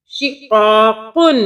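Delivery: शिक़ाकुन slowly, with क़ा held long; slow शिक़ाकुन, lengthened middle syllable; slightly stretched vowel. Shown as a demonstration. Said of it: "थोड़ा सा खींचेंगे".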